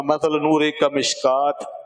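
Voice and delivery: slow, measured chanting of the verse; Quranic recitation. Shown as a demonstration. Teacher reciting the verse to his students, slow chanted recitation. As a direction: recite it slowly, like a verse read aloud.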